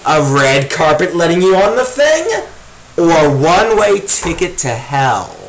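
high, mocking sarcasm at the cartoon; sarcastic. Real, not acted.

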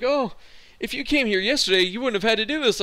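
high, bright-voiced parody of the secretary; mocking secretary. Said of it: "She was like".

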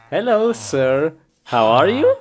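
hammed-up friendly hello; mock polite greeting. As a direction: greet the stranger with cheery mock courtesy. Greeting a character in game.

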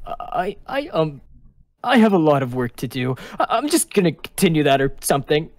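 halting, uneasy excuse; mild acted anxiety; nervous stammering. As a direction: stumble over the start, nervously. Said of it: "messes with his hands nervously".

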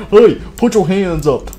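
pretend standoff shout. Player ordering an enemy to surrender, shouted.

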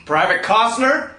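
barking drill sergeant voice. Acted. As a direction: bark questions at the recruit. Plays a drill sergeant questioning a recruit.

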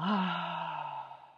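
long, open sighing out-breath; audible exhale. Shown as a demonstration. Meditation guide showing listeners how to let go, audible exhale. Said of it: "And maybe an audible exhale".

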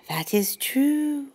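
owl voice. A narrator's reading.

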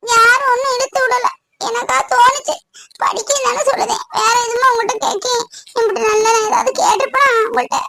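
tearful plea. Acted. Scolded girl pleads to study.

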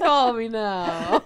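very slow, drawn-out hotline catchphrase; mock psychic sales pitch, every word stretched; Miss Cleo send-up. Podcaster joking with co-hosts, hammed-up psychic hotline plug.

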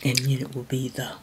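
slow, whispered cooking tip; ASMR whisper. Acted. Mom tries ASMR whisper.

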